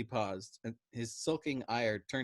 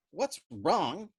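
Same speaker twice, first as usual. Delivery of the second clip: incredulous cry; 8 semitones higher, 6 dB louder than usual. A narrator's reading. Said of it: "Doc Danica cried".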